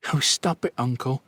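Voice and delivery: lightly voiced young woman, teasing; playful niece. A narrator's reading. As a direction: tease him fondly, voice lifted. Niece teasing her uncle.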